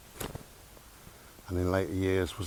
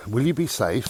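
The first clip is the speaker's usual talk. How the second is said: louder, higher worried mum's question; 4 semitones higher, 5 dB louder than usual. Retold or imitated. Son recalling mum asking about his safety, mildly worried. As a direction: voice mum's concern a touch louder. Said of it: "That was her first thing".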